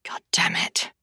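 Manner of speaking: soft, hushed whispered curse; muttered curse. Acted. Dahlia cursing to herself when Raph asks how she is, whispered. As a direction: swear under your breath. Her frustrated inner thought.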